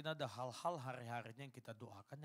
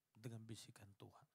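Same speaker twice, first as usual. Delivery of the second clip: a whispered aside, almost no voice; hushed whisper; 3 semitones lower, 7 dB quieter than usual. Real, not acted. Preacher whispering to the congregation about God's quiet voice. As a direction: breathe the words out as a soft whisper.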